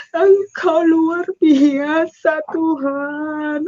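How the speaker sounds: very slow, crying praise to God; sobbing praise. Retold or imitated. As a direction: weep the words out slowly. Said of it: "kata saya". (doa pujian sambil terisak, sangat lambat)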